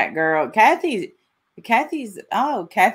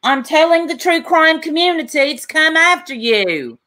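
mock Irish accent, slightly raised; a lightly done Irish accent, half-hearted; 5 semitones higher than usual. Host mocks the Irish streamer's message, light Irish accent. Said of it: "I'm trying to do an Irish accent".

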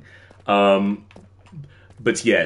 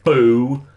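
"boo" punched as one long beat; emphatic boo; 4 dB louder than usual. Real, not acted. Streamer showing off to chat, emphatic "boo". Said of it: "you hear the emphasis I put".

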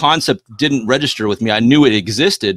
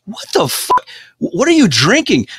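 shocked disbelief; 10 semitones higher than usual. Retold or imitated. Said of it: "I'm like".

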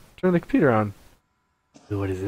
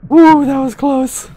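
relieved laughter; 14 semitones higher, 11 dB louder, slower than usual. Real, not acted. After escape.

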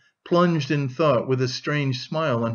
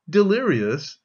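quick, higher, louder interjection; interrupting; 6 semitones higher, 4 dB louder than usual. A narrator's reading. Razumihin breaks in on Raskolnikov's account, interrupting. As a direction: cut in fast with a raised, questioning voice. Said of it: "Razumihin interrupted".

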